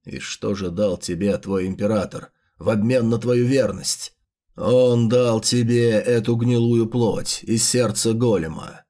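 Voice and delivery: lightly voiced low manipulator; low menacing voice. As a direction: coax them darkly, low and steady. The speaker voices the villain.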